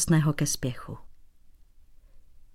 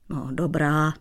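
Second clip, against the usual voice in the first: softening; 2 semitones lower than usual. Acted. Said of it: "měkl Dratvička".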